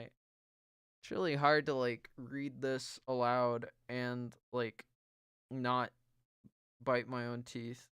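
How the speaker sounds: strained through cramping pain; stomach cramps. Real, not acted. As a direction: push the words out through cramps. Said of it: "God, I'm cramping so hard".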